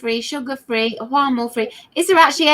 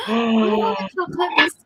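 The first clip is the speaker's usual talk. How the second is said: put-on crying childish wail; whiny child voice; faster than usual. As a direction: whine like a sulky child. Mum's childish whining reply.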